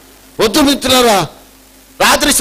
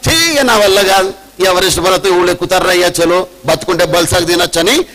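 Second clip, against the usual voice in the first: mock giving up, lower and quicker; imitated quitter; 5 semitones lower than usual. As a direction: toss it off low like someone quitting. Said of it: "quit అయిపోతాం మనం".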